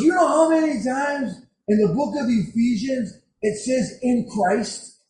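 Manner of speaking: imitating her excitement, high-pitched; fired up. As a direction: quote her as if bursting with a discovery. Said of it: "She was getting me all fired up".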